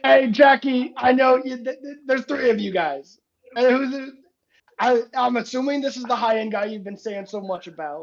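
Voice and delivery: put-on loud, high old guy greeting; old man character. Old driver greeting Jackie and the friends, loud character voice. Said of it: "and he goes".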